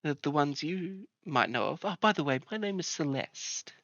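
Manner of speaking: welcoming healer lady. Acted. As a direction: greet newcomers like a kind herbalist. GM voicing the herbalist.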